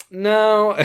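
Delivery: high, loud, drawn-out no; mock refusal. Telling a game character she can't tag along, mock refusal. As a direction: pitch it way up, a playful flat-out refusal.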